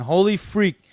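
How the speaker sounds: high, loud surprised shout; surprised exclaim. Real, not acted. Streamer hears another viewer has a Brazilian wife, surprised. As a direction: jolt up in delighted surprise.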